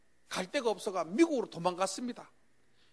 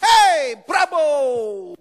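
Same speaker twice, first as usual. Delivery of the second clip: 크게 외치고 "브라보"를 느리게 늘이기; 박수 치며 신나게 환호하듯; 환호하는 선수들; 4 semitones higher, 11 dB louder, much slower than usual. Retold or imitated. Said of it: "이런 말합니다". (쓰러진 동료에게 신나서 환호하는 선수들)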